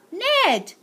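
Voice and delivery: startled high cry of the name; sputtered. Acted. Slime recognising the boy, sputtering in surprise. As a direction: spit the name out in shock. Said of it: "sputtered the boy".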